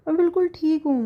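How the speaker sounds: बिल्कुल lifted high, falling to a stubborn end; stubborn insistence. Acted. Wife sulks to husband, insisting she is fine. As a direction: hit बिल्कुल high, sulky and firm. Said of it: "नाक सिकोड़ते हुए बोलती है".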